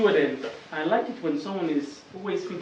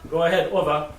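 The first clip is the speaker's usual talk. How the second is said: walkie-talkie voice; 6 dB louder than usual. Pretend. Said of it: "take my walkie-talkie".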